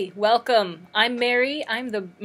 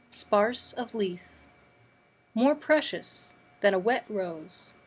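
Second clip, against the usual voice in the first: spare recital in short, separated phrases; poetry reading. Acted. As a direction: let each short line stand alone between pauses. Reads an imagist poem.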